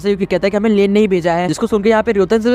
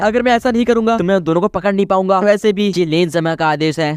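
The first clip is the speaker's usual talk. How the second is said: normal talking voice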